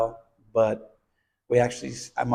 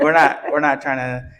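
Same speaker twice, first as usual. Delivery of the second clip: laughing; 2 semitones higher, 6 dB louder than usual. Real, not acted.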